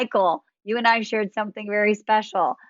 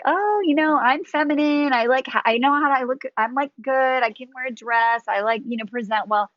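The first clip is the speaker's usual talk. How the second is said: lightly voiced self-assured client, higher pitch; a hint of mock self-assurance, pitched up; confident client; 5 semitones higher than usual. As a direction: imitate clients breezily listing their selling points. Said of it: "my ladies, when I first meet them, are like".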